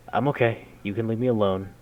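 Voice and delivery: loud and steady; firm, loud reassurance; loud, stable voice. Acted. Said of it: "I reply in a loud, stable voice".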